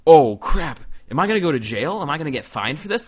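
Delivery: loud "oh crap", then worried questions; mildly panicked, replaying the moment of realization; retold freak-out. Prankster realizing it's really an operator, mock freak-out. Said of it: "I started freaking out".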